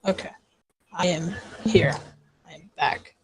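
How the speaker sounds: soft whisper on return; breathy hushed check-in. Real, not acted.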